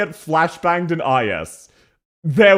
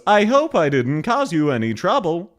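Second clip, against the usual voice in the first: varying pitch imitation. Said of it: "Ansel goes ... constantly varying".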